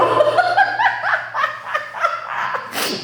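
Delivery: gargalhada aguda de espanto; risada aguda. Real, not acted. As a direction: rindo alto e incrédula. Ri da acusação. (risada aguda e incrédula)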